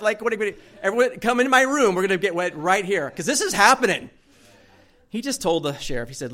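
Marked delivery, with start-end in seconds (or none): 0.0-4.1 high, loud, flustered rallying; playfully frantic, determined to go ahead; worked-up insistence. Retold or imitated. Groom rallies everyone into his room, mock frantic.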